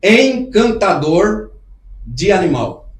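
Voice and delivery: drawn out slowly, word by word, for the viewers to type; slow dictation. Shown as a demonstration. Host telling viewers what to search, stretched out slowly. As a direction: spell out the search term slowly. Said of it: "escreve aí".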